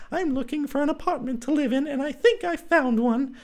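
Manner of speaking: put-on girlish character voice, proud of her find; Clara's high voice. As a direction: speak up high as Clara, triumphant.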